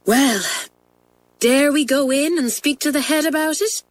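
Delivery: lightly voiced eager schoolgirl; schoolgirl twin voice. Pat urging Isabel to see the head, earnest girl voice.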